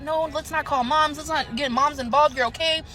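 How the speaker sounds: friend's reassurance. Retold or imitated. Friend telling a panicking narrator she's okay, reassuring. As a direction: talk someone down slowly, imitating a friend.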